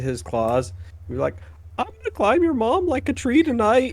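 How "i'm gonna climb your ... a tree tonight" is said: high, gruff mock Wolverine growl. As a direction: ham up a tough-guy Wolverine threat. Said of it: "don't you wanna hear Wolverine".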